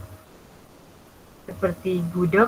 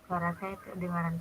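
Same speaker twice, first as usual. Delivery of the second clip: faint and distant; barely audible; 12 dB quieter than usual. Real, not acted. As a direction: still hard to hear. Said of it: "suaramu kecil banget". (suara pelan, kurang terdengar)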